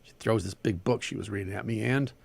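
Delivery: animated story reading with Southern dialogue; story narration. A narrator's reading. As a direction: read the tale aloud, giving each figure life. Reads a short story aloud.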